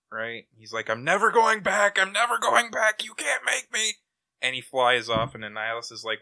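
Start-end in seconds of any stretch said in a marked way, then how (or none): 0.9-3.9 high, loud panicked refusal; hammed-up freak-out, climbing higher as it goes. Hero refusing to return to the Cancerverse, freaking out. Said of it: "Nova freaks the fork out".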